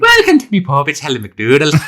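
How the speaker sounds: Irish landlord welcoming drinkers; mock Irish accent. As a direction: greet the pub in a hammed-up Irish accent. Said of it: "take a shot at the Irish accent".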